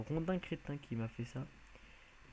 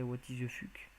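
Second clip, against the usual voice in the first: English phrase in a French-speaker's English accent; accent anglais. Shown as a demonstration. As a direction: show off a dubious English accent. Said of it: "avec mon bel accent anglais". (accent anglais approximatif à la française)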